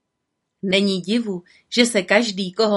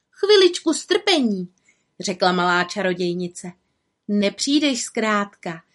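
higher little witch voice, lightly voiced; 5 semitones higher than usual. Little witch asks the fox to wait kindly. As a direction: kind girlish witch soothing.

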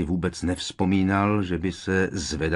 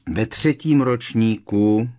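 louder, insistent interruption; raised voice; 3 semitones higher, 5 dB louder, slower than usual. A narrator's reading. Ron talking over Harry's objections, raised voice. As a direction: cut in over a friend, raising the voice. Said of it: "Ron zvýšil hlas".

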